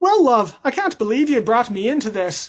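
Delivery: musical, sing-song, put-on lilting Irish accent. Doing an impression of Corky on a call: Corky impression, Irish accent. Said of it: "he's got that Irish accent and sort of lilt to his speech".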